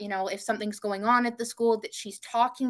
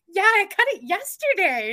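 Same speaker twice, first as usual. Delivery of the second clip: higher, louder sheepish reply; retold own reply; 9 semitones higher, 6 dB louder than usual. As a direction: answer your mom a little guiltily.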